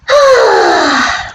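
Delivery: long, high exhaled sigh; big sigh. Real, not acted. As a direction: let out a long, audible sigh. Sighs before returning to story.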